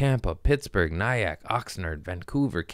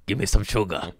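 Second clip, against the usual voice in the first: playful sweet-tooth voice; 2 semitones lower, 3 dB quieter, faster than usual. Pretend. Talking to his audience about donuts, lightly crooned. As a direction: beg for sugar like a kid.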